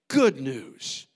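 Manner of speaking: breathy hushed whisper of the key words; stage whisper from the pulpit. Real, not acted. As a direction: drop to a whisper for effect. Whispered punchline.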